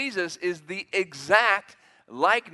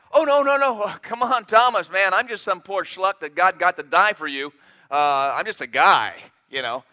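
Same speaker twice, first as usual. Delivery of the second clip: laid-back hypothetical Jesus; 6 dB louder than usual. Pretend. Preacher voicing Jesus dodging Thomas's worship, hammed-up casual. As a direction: wave it away like a regular guy, chuckling. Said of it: "He could have said that".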